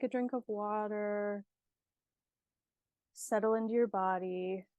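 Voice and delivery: unhurried meditation guide with long pauses; guided meditation. Acted. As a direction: ease the listener into calm, leaving space between phrases.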